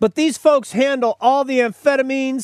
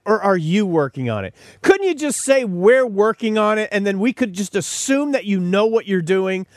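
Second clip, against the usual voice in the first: exasperated. Retold or imitated. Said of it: "I wanna just stop and say".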